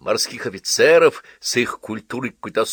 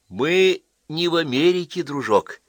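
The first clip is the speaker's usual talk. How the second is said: menacingly tender; 8 semitones higher than usual. A narrator's reading. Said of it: "ласково сказал Вирский".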